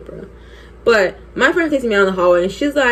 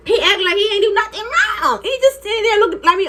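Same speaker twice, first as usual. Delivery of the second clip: worked-up complaint; 11 semitones higher than usual. Retold or imitated. Worked up retelling his innocent act.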